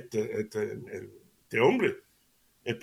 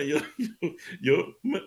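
laughing; 5 semitones higher, slower than usual. Real, not acted. Laughing at his own joke.

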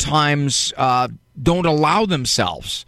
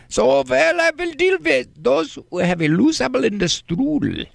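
higher-pitched mock German accent; 11 semitones higher than usual. Shown as a demonstration. Radio host showing off how to sound knowledgeable, in a German accent. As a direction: put on a comic German accent. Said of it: "I can do the German accent".

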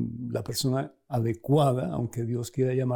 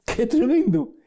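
much higher, louder burst of wonder; amazed exclamation; 11 semitones higher, 4 dB louder than usual. Real, not acted. Preacher marvelling to listeners at God's words, excited. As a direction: exclaim it in awe.

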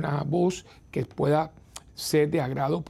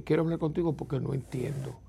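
gentle request; 4 dB quieter than usual. Retold or imitated. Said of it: "un tono de voz que dice".

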